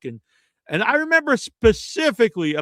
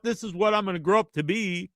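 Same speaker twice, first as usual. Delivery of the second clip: mock earnest dreamer.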